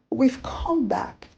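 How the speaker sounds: slow, choked with tears; tearful. Acted. Daughter to long-lost mother, tearfully. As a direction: let the tears catch the words.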